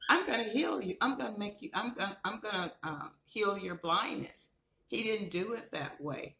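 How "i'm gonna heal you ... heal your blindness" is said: casual imagined reply. Retold or imitated. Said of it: "you would think Jesus would have said".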